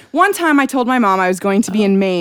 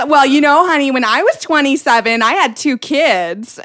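louder, slightly lofty mother impression; lightly voiced mom; 3 semitones higher, 5 dB louder than usual. Daughter imitates mom comparing lives, lightly voiced lecturing mom. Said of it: "she's like".

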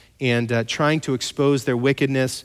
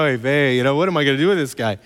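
exasperated sigh; faster than usual. Retold or imitated. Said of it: "you could just see God go".

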